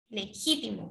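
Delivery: Legítimo with the weight on GÍ; le-GÍ-timo joined up; stress on second syllable. Shown as a demonstration. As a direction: lean on gí in Legítimo. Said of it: "Entonces sería ji".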